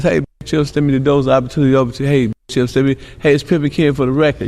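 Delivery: quick, smooth pimp come-on; mock pimp pickup line. Shown as a demonstration. Pimp sweet-talking a passing woman, quick and slick. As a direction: talk fast and slick, reeling her in. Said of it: "I might see a bitch that says".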